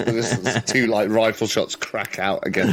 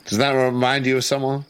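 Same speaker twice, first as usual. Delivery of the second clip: Jacob confronting Ed; 4 semitones higher than usual. Acted. Voices Jacob questioning Ed.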